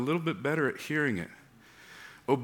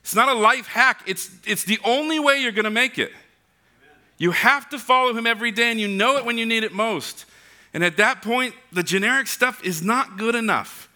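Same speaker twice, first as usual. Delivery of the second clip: high, urgent preaching voice; impassioned, high-pitched exhortation; forceful preaching; 8 semitones higher, 3 dB louder than usual. Real, not acted. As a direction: press each point home to the congregation.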